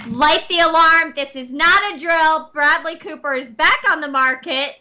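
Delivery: mock alarm announcement. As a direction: announce gossip like an emergency. Mock breaking-news alarm about celebrity.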